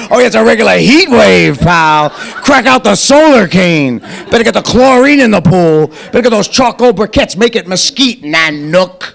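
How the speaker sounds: dripping sarcasm, heat wave mock; deadpan mock cheer; sarcastic reply. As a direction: play the cold as balmy, sneering.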